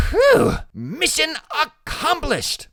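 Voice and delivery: high, loud whew then a slow grand pronouncement; a little commander's mock triumph; relieved whew. A narrator's reading. Boy celebrating the recovered purse, mock triumphant.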